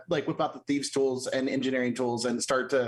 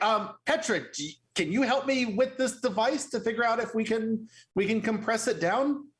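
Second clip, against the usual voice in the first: mildly pleading, pitched up; halting, higher-voiced request for help; 6 semitones higher than usual. Player's character asks Petra for help with device, mildly pleading. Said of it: "Very pleadingly".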